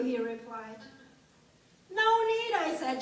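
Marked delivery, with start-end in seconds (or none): 1.9-2.5 high, loud brush-off; flustered, raised-pitch refusal; panicked refusal. Acted. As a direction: cut him off loudly. Acted panicked refusal to lover.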